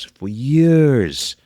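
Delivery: "for years" stretched high and loud; stress on years. Real, not acted. Emphasising long sobriety.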